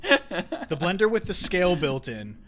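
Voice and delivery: words through a laugh. Real, not acted. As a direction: laugh while saying it. Laughing at own invention.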